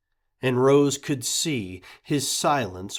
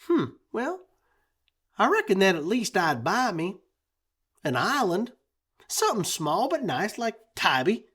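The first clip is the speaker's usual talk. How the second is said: put-on dreamy boy; 8 semitones higher, faster than usual. A narrator's reading. Clancy dreams.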